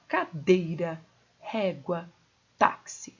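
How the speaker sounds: "Cadeira, régua, táxi" each leaning on the second-last syllable; stress on penultimate syllable. Shown as a demonstration. Teacher gives paroxytone examples, penultimate stress. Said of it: "a sílaba tônica é a penúltima".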